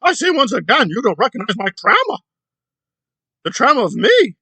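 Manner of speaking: hammed-up loud wailing ah sounds, then self-pitying; mocking her claims of trauma. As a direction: parody a dramatic victim moaning. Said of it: "It's like".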